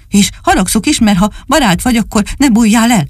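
high, fussing puppy voice; little dog voice. Acted. Csupi finds Dani up in the tree, high relieved fussing.

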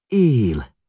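a sudden high, loud shriek of relief; woman shrieking as the wounded man stirs. A narrator's reading. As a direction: cry out that he lives. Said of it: "rikoltotta Rába asszony".

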